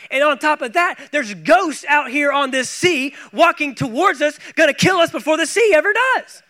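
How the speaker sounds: a scared fisherman losing it in the boat; mock disciple panic. Disciples imagined in storm panic.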